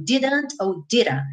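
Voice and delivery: DIDN'T first with a D, then as diran; two takes of "didn't", careful then American; full versus flapped. Shown as a demonstration. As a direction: contrast hard D and tapped D in "didn't". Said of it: "fazer rararã com ele".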